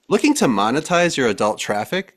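punchy sales-pitch read, key words lifted. Acted. Host reading co-hosts an AI-written sponsor plug, ad read. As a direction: sell it like a sponsor spot. Reads ChatGPT's sponsor ad aloud.

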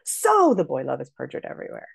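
"So" hit hard at the start, then falling; overstressed so. Shown as a demonstration. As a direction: slam the first word "So" like a big choice. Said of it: "Let me give you an example".

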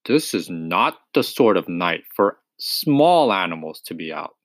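a touch of a fatherly scolding; gently fatherly old badger; paternal. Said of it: "he said paternally".

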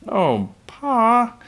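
put-on high, loud child's plea; pleading. A narrator's reading. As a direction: whine up high to Dad, imploring. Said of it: "pleaded Laura".

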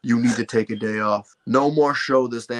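lightly imitated deep parental voice; parents' deep voice. Parents ordering their son off wrestling, mock deep voice. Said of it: "they would get the deep voice on".

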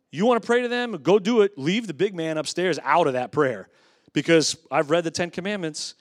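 fired-up preaching. Real, not acted. Preacher challenging the church about mixed prayers, fired up. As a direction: throw the challenge out forcefully. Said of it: "Sorry, I'm getting fired up".

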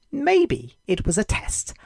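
slow, musing inner thought; a hopeful idea taking shape; thinking aloud. Acted. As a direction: ponder it slowly. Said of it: "he thought".

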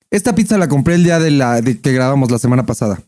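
talking while chewing pizza; mouth full. Real, not acted. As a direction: speak through a mouthful. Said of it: "La que me estoy comiendo ahorita".

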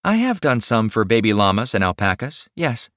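indulgent smile. Acted. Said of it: "with an indulging smile in her voice".

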